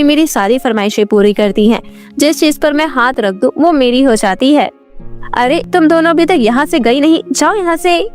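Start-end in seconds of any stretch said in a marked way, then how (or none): 5.4-8.1 higher, quick, irritated order to leave; annoyed dismissal. Acted. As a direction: shoo them off crossly. Ashamed daughter sends family away. (चिढ़कर भगाते हुए)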